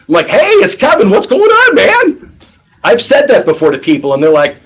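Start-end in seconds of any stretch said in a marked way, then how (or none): 0.3-2.2 high, buddy-buddy hype; matching a buddy. Shown as a demonstration. Salesman greeting a casual caller, high and chummy. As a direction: greet him like an old pal. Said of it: "If you're talking to somebody who's like".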